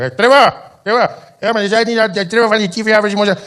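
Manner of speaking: a thrilled Afrikaner fan hailing Trevor; excited Afrikaans man. Retold or imitated. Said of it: "some guy would walk up to me and be like".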